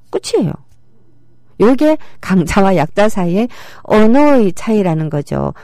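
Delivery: normal talking voice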